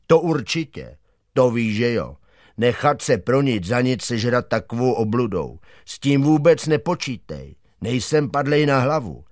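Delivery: a hint of a stubborn dog; dog Jonatán refusing. Dog flatly refuses to climb into the crocodile, mildly scoffing.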